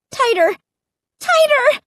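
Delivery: squeezed, alarmed exclamations; rising panic. A narrator's reading. Narrator being crushed, panic rising.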